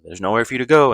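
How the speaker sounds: hammed-up killer threatening his prey; mock villain threat. Villain threatens during a chase.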